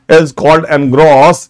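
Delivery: very slow, word by word for notes; dictating to students; slow dictation. Shown as a demonstration. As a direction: spell it out slowly so they can write. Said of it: "Jot down all these words".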